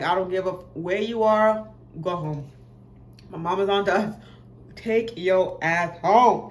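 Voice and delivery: put-on girl ordering the boy to leave before mom catches on; urgent command. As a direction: send him home now.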